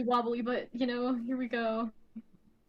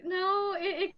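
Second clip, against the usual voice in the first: higher, exasperated retelling; mock fed-up pitch-raised rant; exasperated defense; 8 semitones higher, slower than usual. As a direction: defend her like it's obvious. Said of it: "And it's like".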